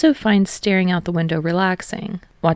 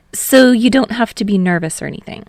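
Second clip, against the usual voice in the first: Hinata's voice; 5 semitones higher, 5 dB louder than usual. A narrator's reading. Hinata voiced higher in story.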